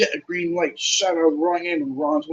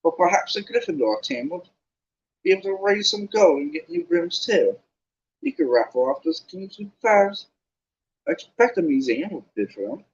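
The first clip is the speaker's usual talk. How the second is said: higher, lightly sneering schoolboy; Malfoy voice; 4 semitones higher than usual. Acted. Malfoy taunts the Gryffindor team, mildly sneering. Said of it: "can't get my Malfoy voice right".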